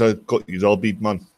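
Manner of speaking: low-pitched Jamaican voice; Jamaican accent. Acted. Jamaican prisoner in size contest, lightly put-on Jamaican accent. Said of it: "So the Jamaican".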